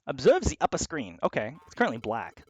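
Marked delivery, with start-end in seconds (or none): 0.1-1.2 lightly voiced German character; German accent. German crew member explaining the tank screens, in a German accent. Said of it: "the only German Platypunk".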